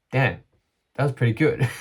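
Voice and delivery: content, proud self-talk; pleased reaction. Retold or imitated. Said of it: "I chose to be like".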